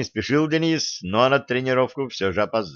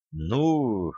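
ordinary delivery, nothing marked

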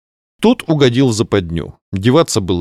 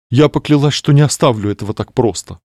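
hollow voice; 4 semitones higher than usual. Acted. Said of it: "глухим голосом произнесла Кларисса".

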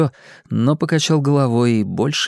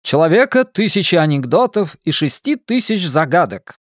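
1950s narrator; 5 semitones higher than usual. Acted. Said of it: "голосом диктора кинохроники".

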